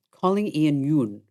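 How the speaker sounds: Siri voice imitation. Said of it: "then she'll say".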